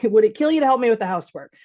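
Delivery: a touch of accusing sarcasm; accusatory. Retold or imitated. Wife blaming her spouse about housework, mock accusatory. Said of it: "kind of accusatory".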